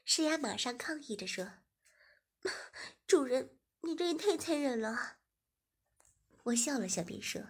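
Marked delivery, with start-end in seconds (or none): 3.1-5.2 louder, higher complaint; protesting young woman. Acted. Shiya protesting to her master, louder and higher. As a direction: cry out in protest.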